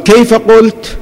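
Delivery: high-pitched retelling of a taken-aback question; astonished question. Retold or imitated. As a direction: ask it back in retold astonishment. Imam sits up, astonished, asks back.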